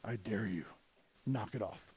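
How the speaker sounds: low, gruff dare in a mock tough-guy voice; Duracell ad tough guy. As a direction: play the tough guy daring you to knock it off.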